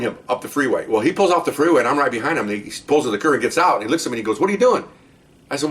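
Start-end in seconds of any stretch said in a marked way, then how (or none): 4.4-4.8 higher, sharp mock challenge from the suspect; suspect's challenge. Suspect demanding what the cop is doing, imitated challenge. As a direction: toss it back like a suspicious crook. Suspect confronts him at curb.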